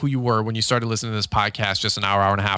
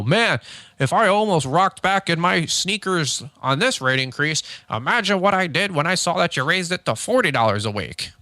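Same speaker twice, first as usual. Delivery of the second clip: shocked customer; 5 semitones higher than usual. Retold or imitated. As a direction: play the customer reeling at the price hike. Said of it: "I can have him go".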